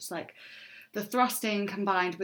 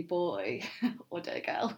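put-on a light, slowed American accent, laughing through it; a hint of American twang on the cringe phrase; 4 dB quieter than usual. Host reading a cringe bedroom phrase to co-hosts, light American accent. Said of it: "I don't know why that was an American accent".

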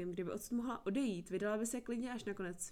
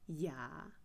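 surprised; 4 semitones lower than usual. A narrator's reading. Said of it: "Překvapení v jeho hlase".

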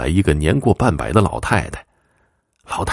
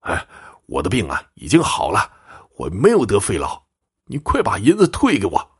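put-on indignant old man. Old man demanding his silver back, mildly indignant. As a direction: start with a sigh, build to insisting. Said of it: "老者气愤地说".

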